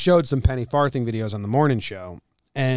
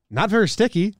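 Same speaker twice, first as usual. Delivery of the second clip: mock complaining; 7 semitones higher, 4 dB louder than usual. Reading review in mock voice.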